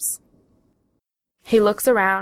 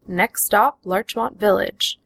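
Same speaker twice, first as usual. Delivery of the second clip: automated announcement; slower than usual. Acted. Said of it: "an automated voice announces".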